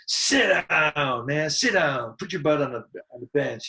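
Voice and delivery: drawn-out heckling shout, settling by the end; retold heckler's yell. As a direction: imitate a fan yelling at a batter. Retold heckler yelling at batter.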